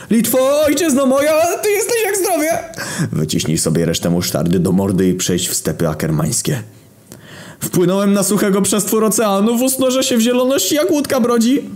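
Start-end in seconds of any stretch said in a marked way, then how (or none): 0.1-2.6 very high, manic poetic declaiming; shouted invocation. Acted. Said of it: "wykrzykiwać inwokacje". 7.6-11.6 very high, frantic poem declaiming; manic recital. Acted. Mad recital of poetry continues.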